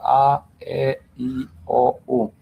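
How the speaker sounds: A, E, I, O, U said one at a time; teacher listing A, E, I, O, U with small gaps; vowel demonstration. Shown as a demonstration. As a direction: sound out each vowel A, E, I, O, U separately. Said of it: "illustrate and show the five vowels".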